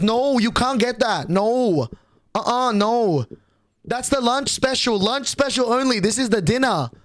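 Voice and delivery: put-on Asian accent. Waitress refusing his cheap order, in a mock Asian accent. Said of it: "putting a bit of an accent".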